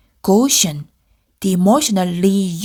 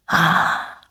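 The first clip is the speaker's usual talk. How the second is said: sigh; 4 semitones lower than usual. Acted.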